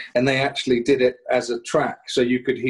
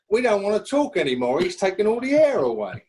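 mock stunned listeners; 8 semitones higher than usual. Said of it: "They're going like".

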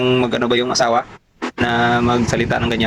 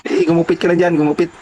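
mock raised voice; 6 semitones higher than usual. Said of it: "Sabi niya sa akin".

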